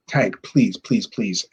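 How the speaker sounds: lightly imitated pleading; understated mock begging. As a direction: plead repeatedly, in a retelling. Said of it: "starts begging me again".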